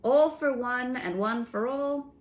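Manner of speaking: high, helpful sentry voice; obliging sentry. A narrator's reading. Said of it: "the voice said obligingly".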